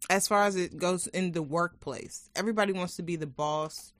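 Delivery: talking with candy in mouth; chewing while talking. Real, not acted. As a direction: chew through the words. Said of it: "I'm chewing my candies".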